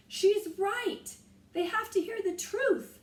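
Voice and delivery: loud, high yell; yelled plea. A narrator's reading. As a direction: shout while running. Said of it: "yelled Jack".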